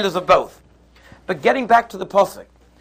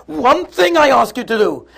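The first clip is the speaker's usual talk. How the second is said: loud, high-pitched acted outburst; screaming back; 6 semitones higher, 5 dB louder than usual. Spouse screams back in a quarrel over a dress, acted yelling. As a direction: hurl it back as a heated reproach. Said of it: "he starts screaming back".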